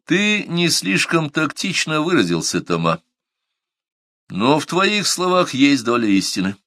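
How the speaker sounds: composed, measured concession; calm. A narrator's reading. Narrator calmly concedes part of Тома's point before the meeting. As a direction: grant the point calmly and without heat. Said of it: "спокойно произнёс я".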